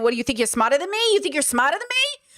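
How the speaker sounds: a hint of a mock Jersey accent. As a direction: lightly put on a Jersey accent. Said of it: "say in a Jersey accent".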